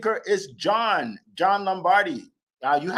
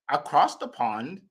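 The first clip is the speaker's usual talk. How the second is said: mock European accent; 3 semitones lower, 3 dB quieter than usual. Shown as a demonstration. Host introducing a speaker from overseas, playful European accent. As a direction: lightly put on a European accent. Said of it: "That's my European accent".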